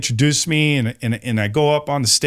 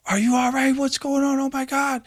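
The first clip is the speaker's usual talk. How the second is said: high-pitched, hushed urgent voice; retold alarm; 12 semitones higher, 3 dB quieter than usual. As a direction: imitate her anxious, high-voiced check-in. Panicked woman runs out to him.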